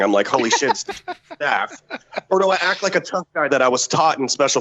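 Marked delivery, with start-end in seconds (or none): 0.3-1.8 fangirl squealing. Retold or imitated. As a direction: imitate a fangirl's inner squeal. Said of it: "like, fangirl squealing".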